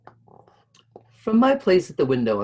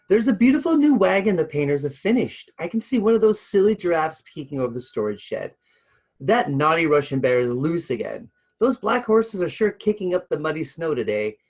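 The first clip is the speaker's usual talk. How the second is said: put-on high, louder eager child excuses; excited chatter; 6 semitones higher, 6 dB louder than usual. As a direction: rattle off excuses, bright-eyed and eager.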